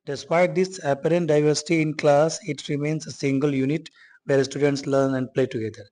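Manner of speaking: slow, deliberate read-aloud of the English line; slow textbook reading. Acted. Teacher reads the textbook sentence to students, slow and deliberate. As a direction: read each word out slowly for the class.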